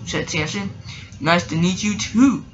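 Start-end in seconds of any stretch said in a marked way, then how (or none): 1.2-2.4 lightly oily greeting. Acted. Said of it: "in an oily voice".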